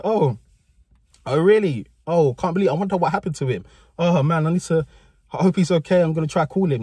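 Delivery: lightly acted innocent concern; good boy voice. Guilty pupil reacting to the nurse's news, good boy voice. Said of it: "I'm doing a good boy voice".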